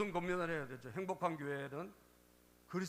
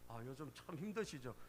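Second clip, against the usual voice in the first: softer, lower words of comfort; gentle sympathy; 4 semitones lower, 6 dB quieter than usual. Retold or imitated. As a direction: gently imitate a counselor comforting someone worn out. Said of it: "따뜻한 사랑의 말 한마디". (따뜻하게 위로하듯 나직이)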